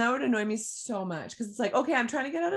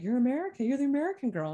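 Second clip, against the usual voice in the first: higher-pitched retold exclamation; imitating pointed recognition; 5 semitones higher, much faster than usual. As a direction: imitate locals excitedly spotting someone. Voices locals approaching her in story.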